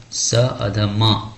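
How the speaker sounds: slow, letter by letter; spelled out slowly. Shown as a demonstration. Teacher spelling शंभू slowly for the class. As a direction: spell each sound apart for students. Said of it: "शंभू कैसे लिखा जाएगा?".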